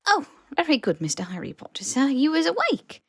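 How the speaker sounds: high, eager squeaky elf voice; squeaky house elf. Acted. House elf waking Harry, high and squeaky. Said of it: "very softly and very squeakily calling his name".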